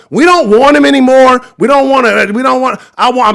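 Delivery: loud, high, raging fan yell; furious shout. Real, not acted. Angry fan telling the city C J must go, furious shout. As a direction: roar it like you're done with him.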